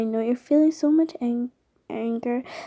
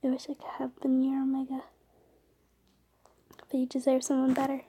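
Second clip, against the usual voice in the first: tearful whisper; 7 dB quieter, much faster than usual. Acted. Saying goodbye before sacrifice.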